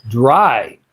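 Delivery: dry, raspy throat; a real rasp from a dry voice. Real, not acted. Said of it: "I got that rasp in my voice".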